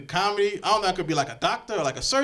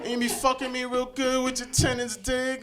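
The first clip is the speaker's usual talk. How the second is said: higher-pitched mock girl taunting him; put-on girl voice, pitched up; imitated girl; 4 semitones higher than usual. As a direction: play a girl needling a man, tripping over "and". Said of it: "like a girl coming to me".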